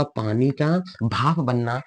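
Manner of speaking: slow, deliberate repeat; measured, word-by-word delivery; slow dictation. Real, not acted. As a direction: draw the words out for pupils. Teacher repeats the example slowly.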